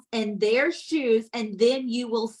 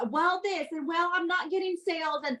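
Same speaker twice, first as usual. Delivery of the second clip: mock whining; 3 semitones higher than usual. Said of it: "some of you are saying".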